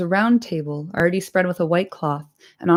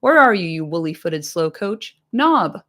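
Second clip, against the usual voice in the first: mock scolding shout; 3 dB louder than usual. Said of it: "he shouted".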